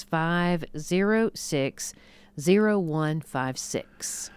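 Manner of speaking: five zero six, zero one five six spelled out digit by digit, slowly; slow, careful number read. Shown as a demonstration. Host repeats the phone number slowly for radio listeners. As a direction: read the number back slowly so callers can write it down.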